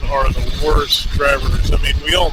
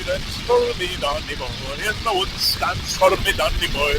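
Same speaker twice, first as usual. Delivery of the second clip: put-on lilting amateur Irish accent; attempted Irish accent. Rider practising inside a squishing helmet, attempted Irish accent. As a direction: try mock Irish with a rise and fall. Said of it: "can't do an Irish accent".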